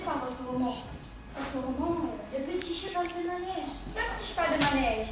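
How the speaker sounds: low, lightly put-on Belgian accent; a hint of a Belgian producer on the phone. Prankster posing as a Belgian producer on the phone, light Belgian accent. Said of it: "je prends l'accent belge".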